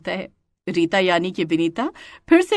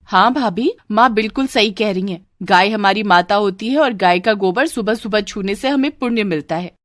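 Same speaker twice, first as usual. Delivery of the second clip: lightly voiced sister-in-law; agreeing sister-in-law. Sister-in-law echoing her mother to the bride, agreeing. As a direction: back up mother, in a middle register.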